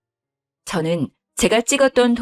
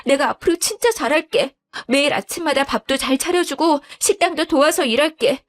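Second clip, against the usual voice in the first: put-on higher, pleading young wife; begging daughter-in-law; 8 semitones higher than usual. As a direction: beg for forgiveness, voice up high. Wife begging husband and in-laws. (애원하는 며느리 목소리)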